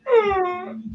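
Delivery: high-pitched mock groan of dismay. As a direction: let out the princess's appalled noise. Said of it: "her face dropped, like".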